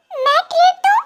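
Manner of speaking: high, incredulous "me, pay?"; shocked disbelief. Acted. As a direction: gasp it out like the idea is absurd. Friends demand a wedding treat. (चौंककर अविश्वास से)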